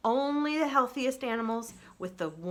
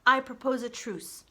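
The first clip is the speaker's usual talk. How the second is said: even, measured robot, a touch higher; calm robot voice; 4 semitones higher, 4 dB louder than usual. Acted. Roz the robot proposing peace to the animals, even robot voice. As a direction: speak like a steady, gentle machine.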